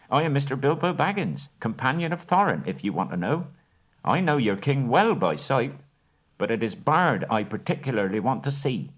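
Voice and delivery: high, self-assured hobbit voice; proud hobbit. Acted. Bilbo giving his name to the elves, high and proud. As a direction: stand on your dignity.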